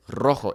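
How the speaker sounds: "Rojo" with a trilled R; rolled initial R. Shown as a demonstration. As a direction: roll the R in "Rojo". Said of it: "So for example".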